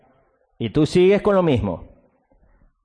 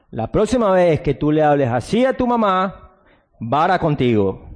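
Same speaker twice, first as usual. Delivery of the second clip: stern parent threatening the rod; with authority. Shown as a demonstration. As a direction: lay down the law to the child. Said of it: "así se habla, con autoridad".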